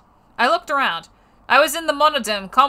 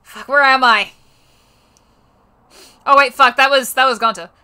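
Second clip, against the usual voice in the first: startled; 3 semitones higher, 8 dB louder than usual. Real, not acted. Reader startled.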